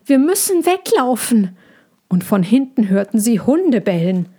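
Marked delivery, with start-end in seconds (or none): 0.1-1.6 high little cub calling his mother; tiger cub calling. A narrator's reading. A frightened cub calls to his mother, high and urgent. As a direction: cry out for Mama in a small, high voice. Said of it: "rief Tommy".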